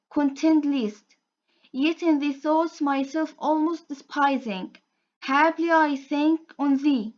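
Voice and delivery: measured, steady reading of a sonnet; a calm classroom poem reading; poem recitation. Shown as a demonstration. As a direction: recite it line by line, evenly paced. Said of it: "I'm going to recite the poem".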